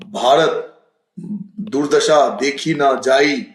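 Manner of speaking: slow, mournful reading of the verse; grieving recitation. Shown as a demonstration. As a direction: lament over the nation's plight. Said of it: "तो गुस्सा आ रहा होगा तभी तो मैं बोलूंगा ना". (शोकपूर्ण धीमा पाठ)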